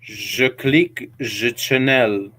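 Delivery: put-on slow, halting French accent; half-hearted French accent; mock French accent. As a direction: try a French accent on each word. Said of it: "No, that's not French enough".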